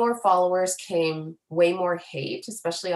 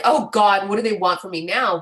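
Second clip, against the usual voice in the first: louder, fed-up groan of a question; exasperated; 6 dB louder than usual. Shown as a demonstration. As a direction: say it as if utterly tired of demands. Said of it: "not like".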